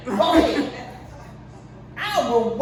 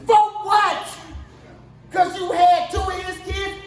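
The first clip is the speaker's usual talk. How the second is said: indignant; 4 semitones higher than usual. Real, not acted. Ranting at Jada's money demand.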